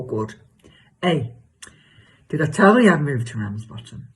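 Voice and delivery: hammed-up chatty gossip with leaping pitch; exaggerated comic self. Telling Cheryl about her new neighbour, exaggerated comic gossip. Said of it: "do an exaggerated version of myself".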